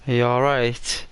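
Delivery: whispered question in the dark. Retold or imitated. Whispering to a stranger in a dark house. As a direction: breathe it, barely voiced.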